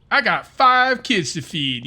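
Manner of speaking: loud, high, drawn-out plea; movie character quote. Retold or imitated. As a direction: imitate a pleading film character, slowly. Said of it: "You know that guy?".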